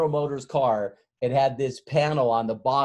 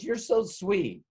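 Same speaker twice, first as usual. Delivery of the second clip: swooning secretary; 7 semitones higher, slower than usual. Retold or imitated. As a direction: melt a bit at the chocolates. Secretary receives chocolates.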